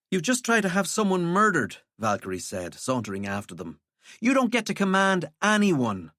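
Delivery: lightly voiced scornful young woman. Valkyrie confronts Walter.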